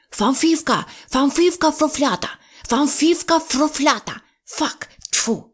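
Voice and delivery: high, eager "фамфівка фрофлята" with every r turned to f; f for r lisp. A narrator's reading. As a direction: repeat it eagerly with a numb tongue. Gagged miser tries again. (високо й завзято "фамфівка фрофлята")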